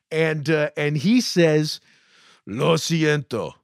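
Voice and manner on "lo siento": slow, measured comeback in Spanish; retold deadpan reply. Masked man answers the gringo in kind, deadpan. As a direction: mimic his slow, deliberate apology.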